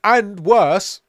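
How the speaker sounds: talking through a blocked nose; stuffed-up nose, can't breathe through it. Real, not acted. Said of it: "currently can't breathe through my nose".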